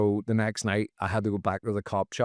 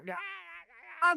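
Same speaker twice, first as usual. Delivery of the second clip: caged monkey noises; 5 dB quieter, much faster than usual. Retold or imitated. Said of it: "just like a caged monkey".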